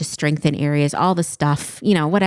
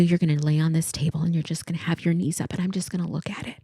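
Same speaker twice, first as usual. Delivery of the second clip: hushed retelling; 6 dB quieter than usual. Retold or imitated. Quoting therapist's plan.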